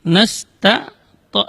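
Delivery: "nasta" ending in a heavy "to"; "nasta" with its ta darkened to to; thickened ta mistake. Shown as a demonstration. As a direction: show "nasta" slipping into "nasto". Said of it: "tanya dibaca to".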